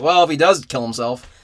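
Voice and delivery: imitating an indifferent boss; shrugging it off. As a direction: brush it off like it's nothing. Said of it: "he just shrugs it off".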